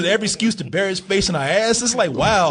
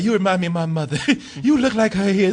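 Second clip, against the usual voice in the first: laughing mock villain; 2 semitones higher than usual. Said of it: "She tells everybody that".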